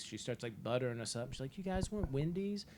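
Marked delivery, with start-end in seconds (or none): 1.6-2.6 higher, sugary grandma offer; imitating an oddly nice grandma; lightly put-on sweetness; mock smiley niceness. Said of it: "she was all smiley and nice".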